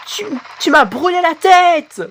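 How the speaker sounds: high, stammered complaint; pained outcry. Acted. Burnt in play fight. (plainte aiguë et bégayée)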